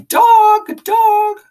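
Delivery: squawking bird yelling "Dog!"; screeching parrot. A narrator's reading. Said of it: "kept screaming".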